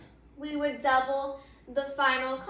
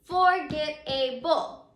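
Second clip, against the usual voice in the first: Forget-able drawn out syllable by syllable; slow, measured teaching pronunciation; sounded out slowly; slower than usual. Shown as a demonstration. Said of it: "say that word with me".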